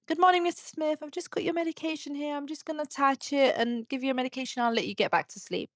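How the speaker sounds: bright bedside sing-song; sweet carer voice. Retold or imitated. Gently addressing dementia patient.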